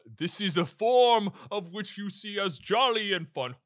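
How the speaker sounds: jolly Santa voice. Acted. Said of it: "my true form would be too horrifying".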